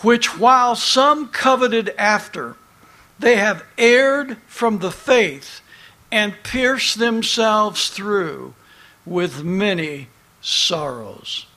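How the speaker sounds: slow, deliberate Bible reading; scripture reading. Acted. Preacher finishes the verse for his congregation, slow solemn reading. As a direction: read the verse out weightily, easing down at the close.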